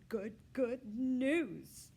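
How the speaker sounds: very high, loud, slow hamster squeak; squeaky hamster voice. Acted. Humphrey the hamster cheering, squeaky voice. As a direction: stretch it out like a happy hamster.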